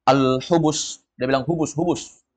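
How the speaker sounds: "hubus" as locals in Arabia say it; colloquial pronunciation. Retold or imitated. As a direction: say "hubus" with H, dropping the final vowel. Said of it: "nanti kalau ada yang bilang".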